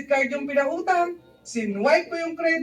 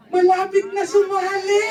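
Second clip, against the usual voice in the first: exuberant shout; 3 semitones higher, 4 dB louder than usual. Retold or imitated. Mentor's exuberant claim.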